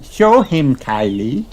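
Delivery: high eager urging; Peppa. A narrator's reading. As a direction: push Kylie on. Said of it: "says Peppa".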